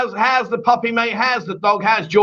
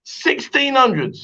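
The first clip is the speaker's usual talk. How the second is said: higher, slow, drawn-out echo; mock incredulity; 6 semitones higher, much slower than usual. Real, not acted. Host won't let co-host's wrong guess go, incredulous. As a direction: savour the absurdity, stretching each word. Repeats the wrong date in disbelief.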